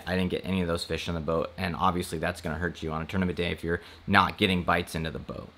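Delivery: ordinary talk, nothing marked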